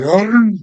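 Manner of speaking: high, loud playful growl; hammed-up high loud arr; mock God roar. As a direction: bellow it like a cheering pirate. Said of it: "And he would be like".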